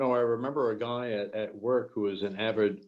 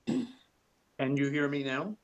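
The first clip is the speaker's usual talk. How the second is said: slow, asking through a mouthful of cucumber; chewing while talking; 3 semitones higher, much slower than usual. Real, not acted. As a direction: talk while chewing something crunchy. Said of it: "too much noise chewing on my cucumber".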